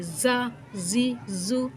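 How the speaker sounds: "زا زی زو" slowly, with a hard hissing whistle on each Z; hard whistling Z. Shown as a demonstration. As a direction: buzz each Z of "زا زی زو" sharply, drawn out. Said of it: "زا میں سٹی، وہ آواز سختی کی". ("زا زی زو" سیٹی اور سختی کی آواز کے ساتھ)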